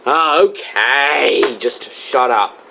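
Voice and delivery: slow, low, weary scolding; exasperated. Acted. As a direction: drag it out, fed up. Host fed up with a rapper.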